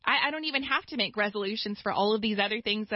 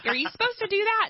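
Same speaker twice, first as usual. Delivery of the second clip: hammed-up puzzled question, rising much higher; mock bewilderment; 3 semitones higher than usual. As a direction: play up clueless surprise at your own expense. Retelling own clueless reaction.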